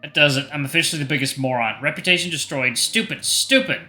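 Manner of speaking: mildly panicked inner rant; mini panic. Acted. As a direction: scold yourself in rising embarrassment. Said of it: "interrupting my mini panic episode".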